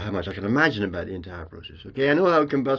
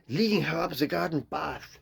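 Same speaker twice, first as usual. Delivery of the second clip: the idiom in a higher, lightly American Hollywood voice; American Hollywood speak; 6 semitones higher than usual. Retold or imitated. Director dropping a British idiom in American Hollywood speak. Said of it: "you go into American Hollywood speak".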